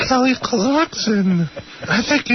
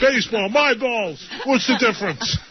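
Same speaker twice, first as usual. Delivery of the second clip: KC impression. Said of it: "it's K C here".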